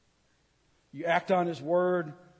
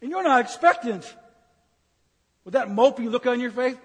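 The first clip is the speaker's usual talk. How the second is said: rebuking the congregation; 3 semitones higher, 5 dB louder than usual. Real, not acted. Preacher keeps rebuking.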